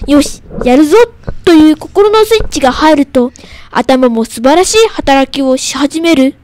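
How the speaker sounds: careful classroom recitation of a poem; reading aloud. Shown as a demonstration. Pupil reads a textbook poem on the radio, reading aloud. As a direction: read it out phrase by phrase. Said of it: "音読のコーナー".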